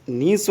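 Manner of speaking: niece with a long ee, neece; correct pronunciation. Shown as a demonstration. Teacher warning class against saying nice. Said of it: "not nice".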